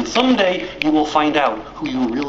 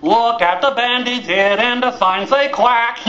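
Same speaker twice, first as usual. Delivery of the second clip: mocking taunt; 5 semitones higher than usual. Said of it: "cute fuzzy duckies make fun".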